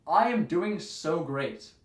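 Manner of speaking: slow, forced brightness; fake cheerful. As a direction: lie through a smile. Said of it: "I say".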